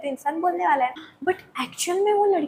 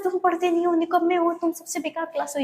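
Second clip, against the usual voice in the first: teacher scolding; 5 semitones higher than usual. Retold or imitated. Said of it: "यही बोलती रहती है".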